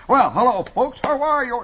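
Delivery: high, loud phony Viennese chef; hammed-up Viennese accent. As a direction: greet the audience in a mock Viennese accent. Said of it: "he had a phony accent".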